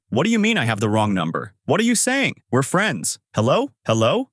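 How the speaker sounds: rising, shaken disbelief into the phone; a friend suddenly hangs up on him; shocked. Acted. Shopping center man, stunned on a dead phone line, calling hello. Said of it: "gets shocked and says".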